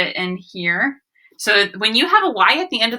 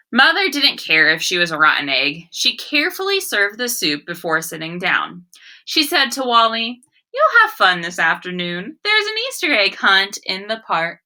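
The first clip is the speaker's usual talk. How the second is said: put-on story read to children. Teacher reads the story aloud.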